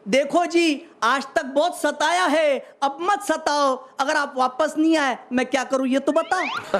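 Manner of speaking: lightly voiced pleading wife, slowing mid-plea; a touch of feeling in measured verse; mock-emotional wife. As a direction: recite it as a mildly emotional appeal. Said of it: "फिर भावुक होकर बोली".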